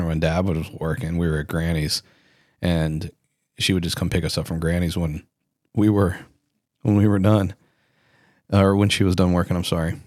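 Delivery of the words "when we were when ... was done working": stuttering. Real, not acted. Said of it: "I apologize for stuttering".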